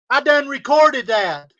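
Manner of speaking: loud, gloating challenge to his critics; angry taunting. Real, not acted.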